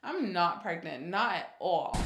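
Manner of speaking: slow, insistent retold denial; firm denial. Insisting to her cousin she isn't pregnant, firm denial. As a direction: dig in and deny it completely. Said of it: "in firm denial".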